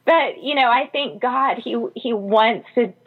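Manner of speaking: fighting back tears as she speaks; crying. Real, not acted. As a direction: voice breaking into tears, high and teary. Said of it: "So I'm gonna cry".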